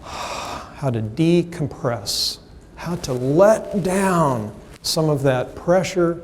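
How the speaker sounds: sigh, then stretch the words out slowly; very slow, drawn-out letting go; slow decompression. Shown as a demonstration. Speaker tells audience how to relax and decompress, slow and drawn out. Models relaxing while naming it.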